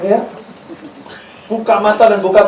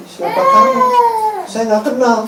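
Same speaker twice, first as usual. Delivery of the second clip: lightly voiced Lord. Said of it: "Tuhan bilang gini".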